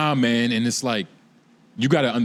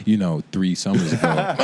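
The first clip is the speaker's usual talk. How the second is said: sultry voice; 6 semitones lower than usual. Retold or imitated. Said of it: "this sultry ass voice".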